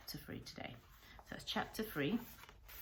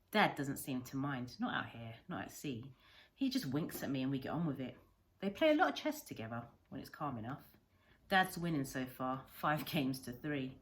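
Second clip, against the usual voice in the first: put-on a boy's logbook read aloud, lively; storyteller reading a novel aloud; story narration; 4 dB louder than usual. A narrator's reading. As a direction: tell it like the boy remembering. Reads the logbook chapter.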